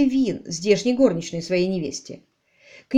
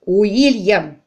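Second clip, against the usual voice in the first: loud, savoured name, falling; relishing the name; 7 dB louder than usual. A narrator's reading. Baronet savouring the name to his wife, loud. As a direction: roll it out like fine port. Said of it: "смакуя это имя".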